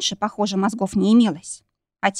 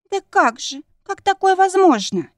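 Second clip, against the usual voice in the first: higher, rising into tearful despair; choking on sobs; 10 semitones higher, 3 dB louder than usual. A narrator's reading. Friend sobs in horror at the sacrifice, tearful cry. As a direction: ask through breaking sobs. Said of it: "Подруга захлебнулась рыданиями".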